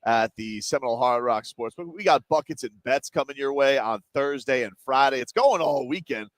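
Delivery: hyped event promo; promo read. Acted. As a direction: pitch the event with energy.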